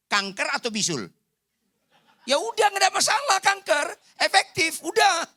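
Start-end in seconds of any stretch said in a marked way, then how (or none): 2.2-5.3 exasperated. Acted. Preacher mock-exasperated exclamation.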